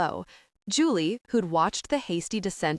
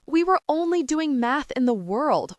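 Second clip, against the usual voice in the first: higher, louder tearful wail; bursting into tears as she pleads; 7 semitones higher, 4 dB louder than usual. A narrator's reading. Julie wails to her dad, close to tears. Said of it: "wailed Julie".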